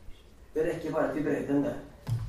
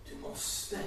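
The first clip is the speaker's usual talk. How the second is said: whispered quote; 10 dB quieter than usual. Retold or imitated. Jesus quoted, first take whispered.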